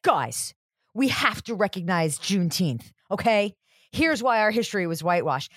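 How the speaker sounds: mock preachy social justice warrior; lightly voiced annoying activist lecturing followers; obnoxious activist. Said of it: "most obnoxious, annoying social justice warrior".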